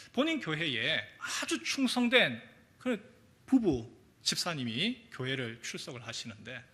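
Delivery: ordinary talk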